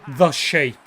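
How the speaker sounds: measured, hushed introduction with long pauses; mock-solemn announcer. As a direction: introduce the fighter with reverent gravity. Mock-solemn introduction over sonata.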